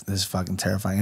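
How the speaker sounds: low, hushed aside to oneself; scared private thought. Retold or imitated. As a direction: mutter it softly, as if unnerved. Retold private thought during head shave.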